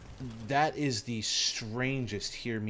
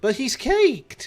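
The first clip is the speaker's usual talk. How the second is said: very high, loud, drawn-out protest; stretched high-pitched mimicry; imitating Danny; 11 dB louder, slower than usual. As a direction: squeal it as a mock insistent friend. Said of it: "Danny was, like, the first one".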